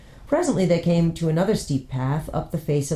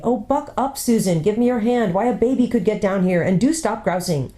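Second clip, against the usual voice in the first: higher, chiding big brother; 5 semitones higher than usual. Acted. Elder brother chiding sister on the path, impatient. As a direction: hurry her along.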